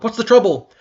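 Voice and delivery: loud, high alarmed yell. Acted. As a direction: call out in alarm. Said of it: "I yelled".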